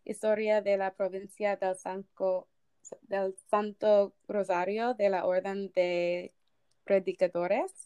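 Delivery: reading a Spanish title in an amateur Spanish accent; half-remembered Spanish accent, sounding out the words; bad Spanish accent. Real, not acted. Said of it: "there's my really bad Spanish accent".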